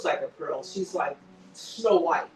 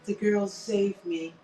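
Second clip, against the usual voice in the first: earnest quote; slower than usual. Retold or imitated. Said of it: "looks him straight in the eye ... and goes".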